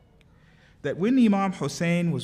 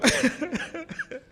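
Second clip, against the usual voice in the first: high, helpless sobs; real sobbing; 8 semitones higher than usual. Real, not acted. Preacher overcome at the name of Fatima, real sobbing. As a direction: break down weeping, wordless.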